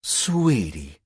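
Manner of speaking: teasing, drawn-out pet name; mock-sweet sarcastic sweetie. A narrator's reading. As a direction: say it like you're looking over your glasses. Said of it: "she said sarcastically".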